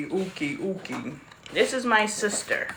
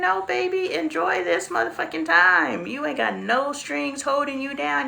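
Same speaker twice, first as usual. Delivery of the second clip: excited urging; 6 semitones higher than usual. Retold or imitated. Urging daughter to enjoy youth.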